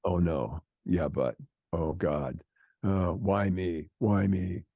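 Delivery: the anxious mind spiraling into dread; whiny anxious brain. Retold or imitated. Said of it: "your brain is going".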